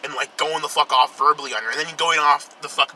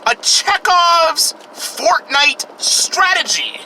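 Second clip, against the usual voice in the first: drawn out, much higher, slow; dramatic echo; 12 semitones higher, 4 dB louder, much slower than usual. Shown as a demonstration. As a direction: stretch out "Chekhov's" high and slow like a trailer voice. Repeated phrase, dramatic echo.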